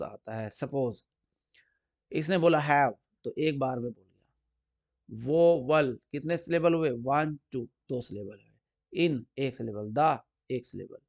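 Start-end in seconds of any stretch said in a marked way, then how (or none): 5.3-6.0 वो वल with a small gap between वो and वल; split into syllables. Shown as a demonstration. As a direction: break वो वल into two separate beats. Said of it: "बोलने में हमें कितने ... बीच में गैप आता है".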